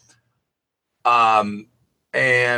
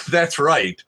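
smug; slower than usual. Retold or imitated. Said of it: "so smug in his answer".

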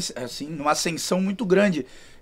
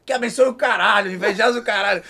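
imitating Kevin; 3 semitones higher than usual. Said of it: "Com aquele jeitão dele".

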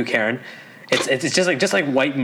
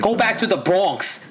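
put-on slow, higher, clumsy New York accent; bad New York accent; 4 semitones higher, much slower than usual. Trying his friend's accent game, slow bad New York accent. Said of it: "No, that was awful".

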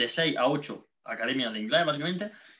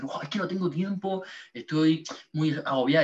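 a lightly voiced, higher whiny girl complaining; a hint of a fed-up schoolgirl; imitating stressed girl; 4 semitones higher than usual.

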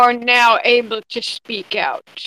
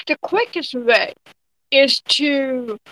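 usual speaking voice

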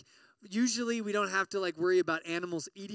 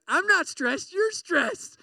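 higher, louder, mock indignant; defensive denial; 10 semitones higher, 6 dB louder, slower than usual. Stressed denier insisting someone else is stressed, mock defensive. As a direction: snap back that you're fine. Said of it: "You're like".

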